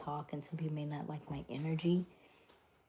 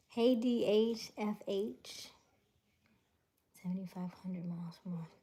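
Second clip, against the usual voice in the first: fast hushed whisper; 2 semitones higher than usual. Real, not acted. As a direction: rush it out in a whisper. Whispered chat reading.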